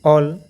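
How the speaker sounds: ऑल stretched slowly with a rounded o; slow clear ऑल; drawn out model. Shown as a demonstration. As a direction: model ऑल slowly for students to copy. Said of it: "ऑल पढ़ेंगे".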